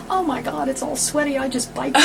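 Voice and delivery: high, loud flustered protest; imitating a flustered cyclist; mock protest. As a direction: play the sweaty embarrassed girl. Girl quoted protesting.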